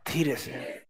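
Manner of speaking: almost swallow the words; said very softly. Shown as a demonstration. Class answering the teacher very softly. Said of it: "जोर से नहीं, धीरे से".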